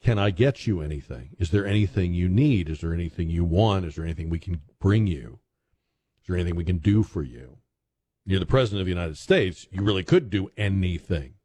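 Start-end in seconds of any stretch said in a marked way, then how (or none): 0.0-7.6 sincere hospital offer. Shown as a demonstration. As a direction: ask it kindly, as to a wounded patient. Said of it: "a very common question asked with sincerity".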